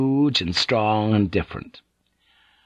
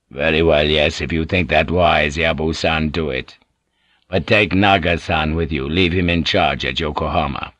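lower, measured voice of a calm lord; Toranaga's voice; 5 semitones lower than usual. Acted. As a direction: speak down to a retainer, unhurried.

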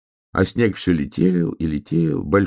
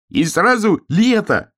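high, drawn-out hare exclamation; excited cry; 14 semitones higher, 4 dB louder, slower than usual. A narrator's reading. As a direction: cry it out slowly, pitched way up. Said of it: "крикнул заяц".

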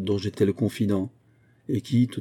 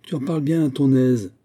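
higher-pitched, mildly exasperated retort; 5 semitones higher, 4 dB louder than usual. A narrator's reading. Teacher answers pupil wanting to quit, mildly exasperated. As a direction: snap back with a touch of exasperation. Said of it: "s'écria Morini exaspéré".

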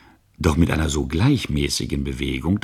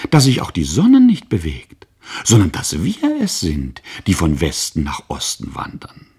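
put-on excited child; 4 dB louder than usual. Boy reasoning excitedly to mother.

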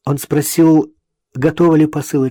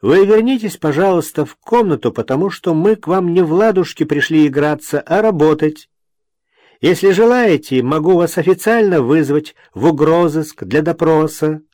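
stern; 6 semitones higher, 4 dB louder than usual. A narrator's reading. Stern officer demands she return.

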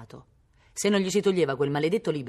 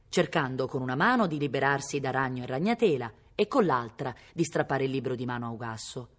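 ordinary delivery, nothing marked

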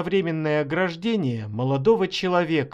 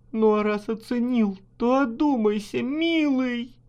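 high, tearful plea; starting to cry; 7 semitones higher than usual. A narrator's reading. Wife starts crying as she begs husband, high and tearful. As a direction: beg through rising tears. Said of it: "Вдруг заплакала".

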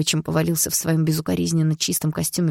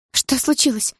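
high, demanding mother's cry; panicked shout; 10 semitones higher, 4 dB louder than usual. A narrator's reading. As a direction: demand answers at a raised pitch. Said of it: "закричала мама". (мама кричит, требуя ответа)

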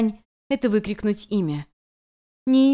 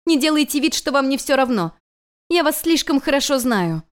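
angry accusation; 6 semitones higher, 4 dB louder than usual. Acted. Girl accuses her teacher.

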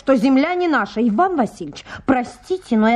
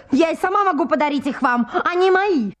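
laughing retort. Acted. Natalya mocking Ivan's gift of her own meadows, laughing. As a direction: toss it back through a laugh. Laughs while rebuffing his offer.

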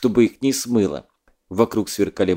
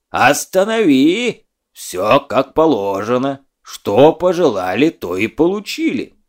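pedantic genie; 4 dB louder than usual. Acted. Genie counting off wishes.

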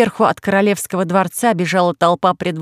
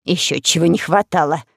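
offended queen. Acted. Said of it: "обиделась царица".

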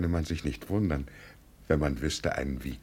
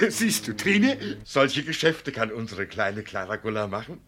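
much higher, louder laughing boast; laughing pride; 7 semitones higher, 4 dB louder than usual. Acted. Proud father boasting to his wife about their daughter, laughing. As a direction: crow with glee.

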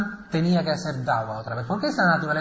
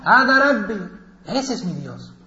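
proclamation; 4 semitones higher, 4 dB louder than usual. Acted. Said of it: "Pero dijo".

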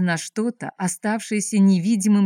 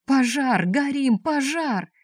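much higher panicked cries; panicked yelling; 7 semitones higher, slower than usual. Acted. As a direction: scream fire while fleeing. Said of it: "размахивая руками и вопя". (паническая вопль)

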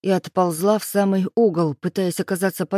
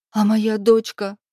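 slow, higher and louder, holding back tears; a trembling plea for her child; tearful babble; 4 semitones higher, 4 dB louder, slower than usual. A narrator's reading. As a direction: ask about her daughter while swallowing tears. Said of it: "глотая слёзы, пролепетала".

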